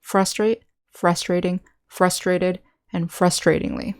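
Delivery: "Frustrate, frustrating, frustrated, frustratingly" each stressed on FRUS; first-syllable stress. Shown as a demonstration. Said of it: "stress is on the first syllable".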